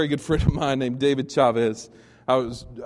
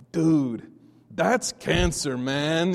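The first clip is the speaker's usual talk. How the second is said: lightly imitated Hispanic accent, slowly drawn out; David's Hispanic accent; 3 dB louder, much slower than usual. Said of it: "this is his accent, not mine".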